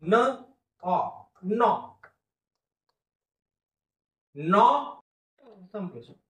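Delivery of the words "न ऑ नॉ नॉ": drawn-out vowel then syllable; slow phonics blend. Shown as a demonstration. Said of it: "पहिला syllable".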